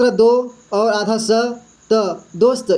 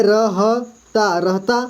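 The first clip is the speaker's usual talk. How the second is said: syllable by syllable; much slower than usual. Shown as a demonstration. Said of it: "तो ता पढ़ेंगे इसको".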